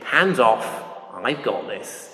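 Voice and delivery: a touch of suave English flying instructor; smooth, lightly put-on English accent. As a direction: imitate a suave English officer taking over. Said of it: "very suave sort of English accent".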